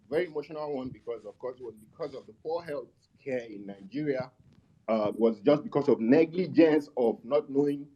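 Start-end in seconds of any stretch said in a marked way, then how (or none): 4.9-7.9 muffled. Real, not acted. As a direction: voice dulled as if behind a hand. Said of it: "you sound a bit muffled".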